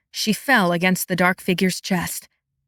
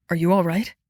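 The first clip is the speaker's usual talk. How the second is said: concerned; 3 semitones lower, faster than usual. A narrator's reading. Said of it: "a shade of concern".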